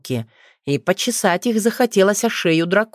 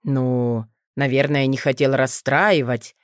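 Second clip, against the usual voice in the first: awkward; 4 semitones lower than usual. Acted. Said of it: "неловко пожал плечом Нейтан".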